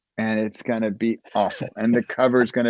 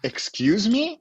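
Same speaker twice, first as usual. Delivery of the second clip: much higher, startled excuse me; mock startled question, much higher; taken aback; 11 semitones higher, slower than usual. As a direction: sound thrown off by the answer. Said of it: "they say".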